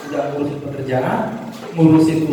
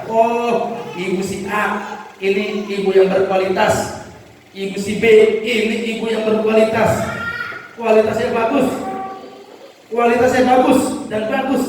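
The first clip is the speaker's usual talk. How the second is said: lightly voiced praising God, rising higher; a gentle lift as God praises his child; God's voice; 5 semitones higher than usual. Preacher voicing God calling out names, mildly higher. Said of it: "Jadi Tuhan panggil nama kita".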